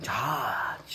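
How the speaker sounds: long, drawn-out whisper; breath-only, stretched ঝাঁঝ; whispered echo. Real, not acted. Echoing the pungency warning.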